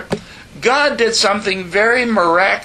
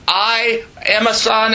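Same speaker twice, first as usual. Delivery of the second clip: shouted plea; 4 semitones higher than usual. Retold or imitated. Shouted line of retold prayer.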